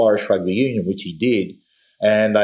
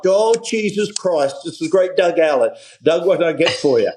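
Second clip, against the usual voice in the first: put-on thrilled old bloke; 6 semitones higher than usual. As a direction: swoon at hearing the star's name.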